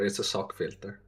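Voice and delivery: ordinary delivery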